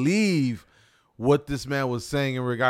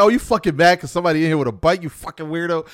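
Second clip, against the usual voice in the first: loud, fast, higher angry rant; cussing him out; 4 semitones higher, 5 dB louder than usual. Retold or imitated. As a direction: chew out the complainer. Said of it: "I start cussing this dude".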